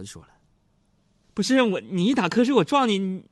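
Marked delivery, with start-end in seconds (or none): 1.3-3.2 higher, louder scolding wife; hammed-up wife yelling back; retold roar. Wife scolding the dozing driver at red lights, a mock yell. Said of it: "跟我咆哮了".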